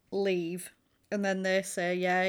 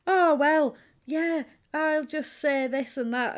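a higher, louder put-on fussy lady voice; mock fussy Annie; 6 semitones higher, 5 dB louder than usual. Annie dismissing Paul's writing, hammed-up fussy voice. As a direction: ham up a flustered prude. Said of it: "and then she's like".

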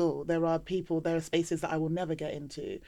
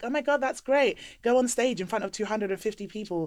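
high gushing praise; mock gushing; 5 semitones higher, 3 dB louder than usual. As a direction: fake enthusiastic gushing. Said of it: "why would I be like".

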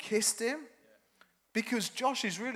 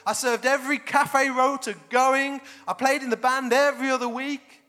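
aggrieved brother; 4 semitones higher, 5 dB louder than usual. Acted. Older brother complaining to father.

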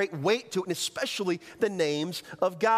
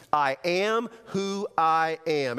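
very slow, weighty proclamation; solemn, measured declaration; God's declaration; 4 dB louder, much slower than usual. Acted. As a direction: let each word stand, drawn out.

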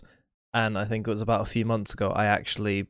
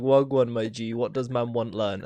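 put-on London roadman accent. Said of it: "The Roadman Encyclopedia".

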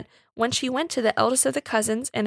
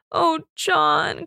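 higher, louder distressed cry; 6 semitones higher, 5 dB louder than usual. A narrator's reading. Woman tears herself from her sweetheart's embrace, crying out. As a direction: cry his name in distress. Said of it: "cried Alice".

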